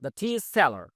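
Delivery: very slow, word by word; spaced-out classroom read; slow model reading. Shown as a demonstration. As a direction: dictate each English word slowly for learners. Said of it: "উচ্চারণটা খেয়াল করুন".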